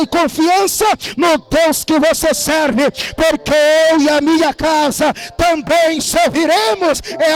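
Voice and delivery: fervent, driving testimony climax; pregação a plena força. Real, not acted. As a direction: preach it out with full conviction, barely pausing. (pregação fervorosa e triunfante)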